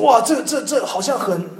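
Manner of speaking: chuckling wonder; amazed laugh. Retold or imitated. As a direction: break into a delighted laugh. Laughing at the discovery.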